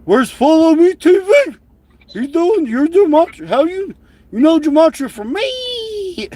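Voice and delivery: high shouting caricature; hammed-up screeching rant; shouted mock impression. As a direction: yell it like a frantic crank. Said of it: "the quack's gonna be like".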